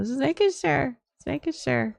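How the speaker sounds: retold placating. Placating grandma in retold exchange.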